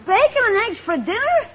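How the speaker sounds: dismayed question, rising at the end; incredulous protest. Acted. Boy balking at uncle's bacon and eggs dinner, incredulous. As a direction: question the menu in disbelief.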